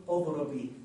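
اضربي ends on long ee, no n; pausal form, ya restored. Shown as a demonstration. Teacher shows stopping on feminine verb, long ya restored. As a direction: stop on a drawn-out ee in اضربي. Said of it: "في حالة الوقف شو نقول؟".

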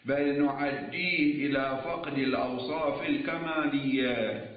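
slow, measured scholarly dictation on a level tone; formal lecture dictation. Real, not acted. Seminary teacher dictating the legal argument to students, formal dictation. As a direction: dictate the text, stretching the long vowels.

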